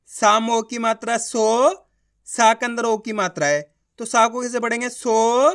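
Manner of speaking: slow, drawn-out "साम ओ की मात्रा सो"; teacher sounding out "सो" carefully; slow spelling out. Shown as a demonstration. Teacher demonstrating the O matra on "सा", slow spelling. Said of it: "एक एक अक्षर का उच्चारण करके".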